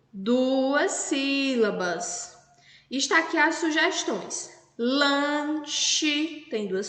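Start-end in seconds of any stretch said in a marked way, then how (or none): 0.1-2.4 slow emphasis. Shown as a demonstration. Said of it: "teacher stressing two syllables".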